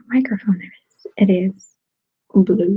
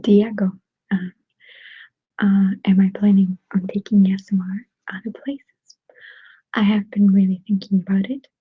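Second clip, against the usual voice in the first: ASMR whisper. Real, not acted. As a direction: whisper casually, as if chatting to ASMR viewers. ASMR whisper held throughout.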